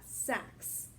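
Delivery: sax whispered, only the breath, with a hissing ks at the end; whispered sax demo. Shown as a demonstration. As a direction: breathe out sax for the class to copy. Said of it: "let's stick with that".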